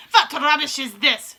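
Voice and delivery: loud, slow scornful shout. Acted. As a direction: scoff at the nonsense. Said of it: "shouted the Grand High Witch".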